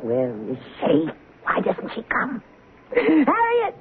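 high, panicked cries; cries for help. Acted. Patient screams for Harriet at night, panicked and high.

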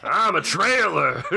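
high, slow redneck drawl. Pretend. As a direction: play the redneck, drawn out. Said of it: "my redneck voice".

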